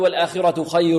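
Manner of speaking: خير drawn into an oral oo with no nasal hum; merging through the mouth. Shown as a demonstration. Teacher imitates some students, خير merged without nasality. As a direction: hold the join after خير in the mouth only. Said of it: "يدغم والصوت يخرج من الفم".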